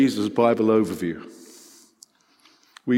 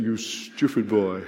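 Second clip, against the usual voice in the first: slow, lightly put-on scolding; a hint of a comic exasperated superior; Dad's Army character; 2 semitones lower, 4 dB quieter, slower than usual. Imitating a sitcom scolding, slow mock reproof. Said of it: "It's a bit like the Dad's Army character".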